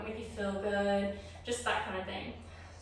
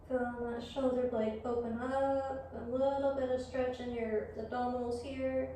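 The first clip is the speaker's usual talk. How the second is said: yoga guidance; 6 dB quieter than usual. Real, not acted. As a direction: guide them gently through the pose, leaving room to breathe. Leads yoga practice.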